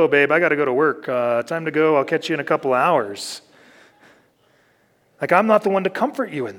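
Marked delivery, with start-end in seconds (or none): 0.0-3.4 mock escape excuse. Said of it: "I usually go".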